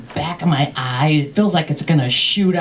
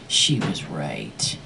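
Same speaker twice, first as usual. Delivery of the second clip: dramatic realization; 14 semitones lower, 8 dB quieter, slower than usual. Acted. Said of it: "that's when it hit me".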